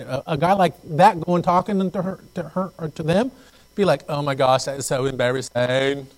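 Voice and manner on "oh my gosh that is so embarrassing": lightly voiced gushing teen-girl slang; a hint of mock-mortified girl talk; faddish girl talk. Imitating girls embarrassed by a guy, faddish girl talk. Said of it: "girls talk like that back in the days".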